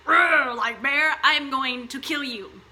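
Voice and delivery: put-on a mother turning fierce to protect her baby; mock furious mother. Mother threatens the bear to protect her baby, mock fury. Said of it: "The woman gets all hot, all mad, and is like".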